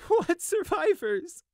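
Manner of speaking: high, loud, drawn-out broken cry; broken half-laugh, half-sob. A narrator's reading. Survivor asks the ruined inn, broken and bitter. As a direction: crack between laughing and sobbing. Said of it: "halfway between a laugh and a sob".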